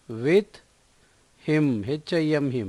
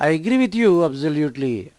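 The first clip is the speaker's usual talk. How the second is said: slow, word by word, clearly spaced; slow model sentence; much slower than usual. Shown as a demonstration. Teacher to Telugu learners, modelling the English sentence slowly. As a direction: read it slowly for learners to copy. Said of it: "teacher models the sentence slowly".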